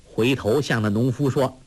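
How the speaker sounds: plain reading voice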